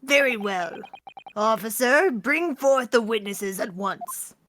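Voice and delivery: stern judge. Acted. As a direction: order the officer firmly. Judge commands officer.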